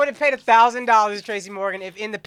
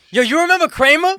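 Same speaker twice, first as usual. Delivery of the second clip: lightly voiced Tracy; 7 semitones higher, 8 dB louder than usual. Imitating Tracy in clip.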